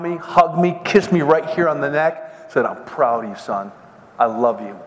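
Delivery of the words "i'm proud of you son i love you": low, softened fatherly praise; tender father. Retold or imitated. Father hugs his son after the fight, quietly tender. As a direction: lightly voice a proud dad, pitched down.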